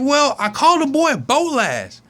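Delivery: lightly voiced little girl. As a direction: say it innocently like a child. Susie voiced, child.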